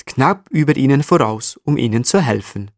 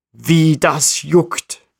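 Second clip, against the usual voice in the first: desperate marmot; 5 semitones higher, much slower than usual. Acted. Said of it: "denkt er und setzt sich verzweifelt".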